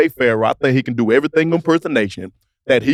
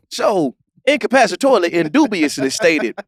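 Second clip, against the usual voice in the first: mock pompous Shannon Sharpe. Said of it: "you got a handle on the English dictionary".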